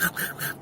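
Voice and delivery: wordless unvoiced snapping noises; imitated dog biting. Beagle trying to bite the dog, imitated snapping noises. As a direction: mimic a dog's quick bites. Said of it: "trying to bite the dog".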